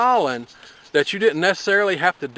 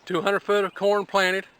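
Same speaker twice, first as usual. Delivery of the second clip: softer, breathless restating of the tally; winded repeat; 3 semitones higher, 5 dB quieter than usual. Real, not acted. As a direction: say it again quietly, still catching your breath. Repeats tally, winded after planting.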